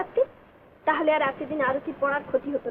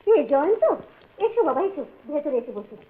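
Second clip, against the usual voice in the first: welcoming call; 4 dB louder than usual. Acted. Aunt calls visitor inside.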